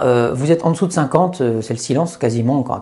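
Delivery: ordinary talk, nothing marked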